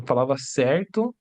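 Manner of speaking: ordinary talk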